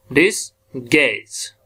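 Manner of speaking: डिस, गैज whispered slowly, second syllable गैज stressed; whispered demo. Shown as a demonstration. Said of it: "second ये accent".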